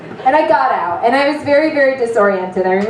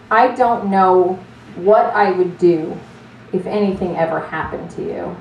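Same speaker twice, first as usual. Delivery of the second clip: tender confession; 3 semitones lower than usual. Retold or imitated. Friend's emotional confession.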